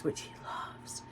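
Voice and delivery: hushed, near whisper; talking low. Real, not acted. Mum on her son's secret presents, whispering low. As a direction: drop to a breathy whisper. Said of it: "I'm, I'm talking low".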